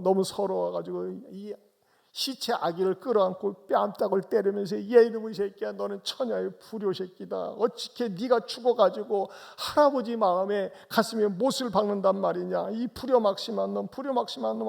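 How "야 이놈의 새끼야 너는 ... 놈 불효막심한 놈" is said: higher, a bit louder tearful rebuke; grieving scolding. Retold or imitated. Father slaps the dead baby, scolding through tears. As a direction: scold the child through your grief.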